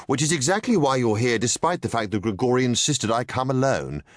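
a leader losing patience with his bodyguard; edge of impatience. A narrator's reading. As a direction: let irritation show through the calm. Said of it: "an edge of impatience in his own tone".

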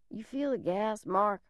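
soft, frightened near-whisper; faint as the gas takes hold; hushed. Acted. Gas filling car.

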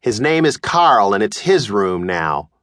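slow, calm, unbothered mother; mother calmly explaining over tea; matter-of-fact mom. Acted. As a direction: state it like nothing's wrong. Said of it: "she said".

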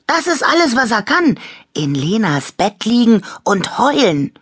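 high-pitched sneering complaint; mock the crybaby, high and indignant; scornful, high-voiced jeer; scornful mockery. A narrator's reading. Toy mocks the crying teddy.

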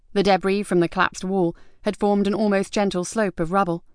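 ordinary delivery, nothing marked

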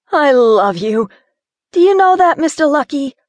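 gushing to Harry in relief; relieved, playful Gina. Acted.

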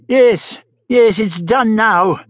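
put-on slow, sighing old man. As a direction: let it out on a sigh. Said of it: "sighed the Doctor".

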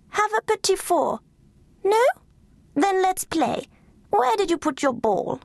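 high, sleepy, doting Duchess; fussy old Duchess. Acted. Duchess waking to her lapdog, high and doting. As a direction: coo at the pet like a grand lady.

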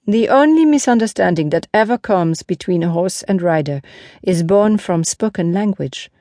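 lightly voiced knight explaining to onlookers; a hint of a teacher-knight; Lancelot, earnest horseman. Lancelot addresses the crowd.

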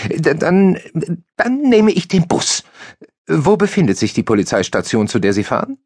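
high, halting and flustered; stumbling over his first words; stammering Hansch. A narrator's reading. Hansch grasping for an argument, high and flustered.

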